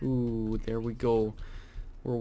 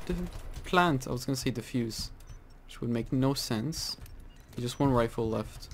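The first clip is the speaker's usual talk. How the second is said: ordinary delivery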